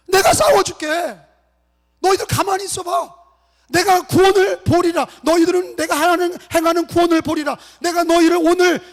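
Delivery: high, loud, forceful proclamation; God's commanding shout. Acted. Preacher as God to frightened Israel, commanding shout. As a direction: thunder out a promise to fight for them. Voices God's promise to fight.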